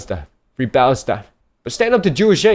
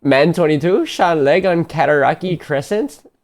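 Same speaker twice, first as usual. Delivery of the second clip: Canadian accent; 3 semitones higher, slower than usual. Shown as a demonstration. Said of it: "I have to read this in, like, a Canadian accent".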